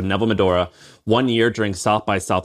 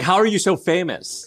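higher-pitched mock amazement; starstruck girl, imitated; 8 semitones higher than usual. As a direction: ask like an awed fan, playfully. Retold girl starstruck by streamer.

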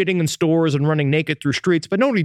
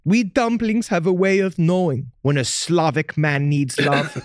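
seductive pierogi voice. Acted.

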